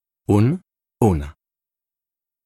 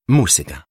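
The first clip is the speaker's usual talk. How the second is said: "música" stressed on its first syllable, mú. Shown as a demonstration. Teacher illustrating the written accent, "música" stressed on the ú. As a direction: hit the "mú" of "música", pronounced moo. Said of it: "qui porte l'accent sur la lettre U".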